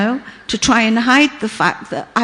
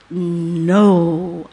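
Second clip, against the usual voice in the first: very deep voice; 4 semitones lower than usual. Retold or imitated. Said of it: "in a very deep voice".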